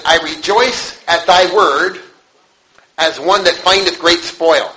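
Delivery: very slow, each word weighed; slow scripture reading. Shown as a demonstration. Preacher quoting Psalm one nineteen, slow and solemn. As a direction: read it slowly, like holy words. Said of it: "it says".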